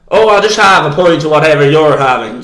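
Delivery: imitating the Irish fella casually ordering; Irish accent. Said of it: "I'm not just doing accents for no reason".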